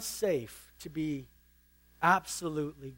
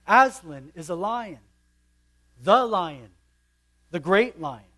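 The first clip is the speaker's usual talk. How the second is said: stern and emphatic, a bit louder; a touch of stern beaver, building to the great lion; 2 semitones higher, 5 dB louder than usual. Acted. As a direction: insist firmly like a stern beaver. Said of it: "said Mister Beaver sternly".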